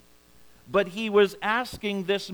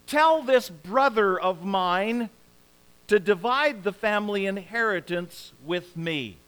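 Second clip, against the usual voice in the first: cries out. Retold or imitated. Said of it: "And he cries out".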